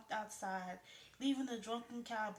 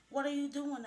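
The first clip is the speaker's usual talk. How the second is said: alarmed; 5 semitones higher, 9 dB louder than usual. A narrator's reading. Truck speeds round a corner.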